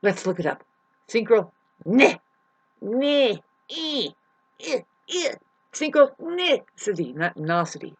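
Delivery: synchronicity broken into halting syllables, high and slow; mock sounding out of synchronicity syllable by syllable. Shown as a demonstration. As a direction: stumble up through the word synchronicity, then land on it. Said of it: "I'm like".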